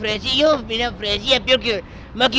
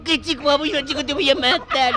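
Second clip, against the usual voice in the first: high-pitched retold quarrel threat; angry retort; 5 semitones higher than usual. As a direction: cut the excuse off angrily. (réplica furiosa, en tono agudo)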